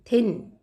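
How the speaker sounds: थिन starting with an aspirated थ. Shown as a demonstration. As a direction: teach थिन with a clear थ at the front. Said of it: "यहाँ भी थ का sound".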